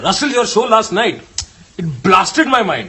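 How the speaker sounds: Indian uncle. Retold or imitated. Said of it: "That's exactly what uncles say".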